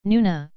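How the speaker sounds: "Nuna" said with two clear N sounds and a slight lift; Korean word demo. Shown as a demonstration. Teacher showing the class a Korean example word, careful pronunciation. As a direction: present "Nuna" as the model word. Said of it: "Let's have a look on some examples".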